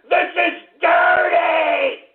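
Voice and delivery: slow shouted disgust. Acted. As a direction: drag it out, repulsed.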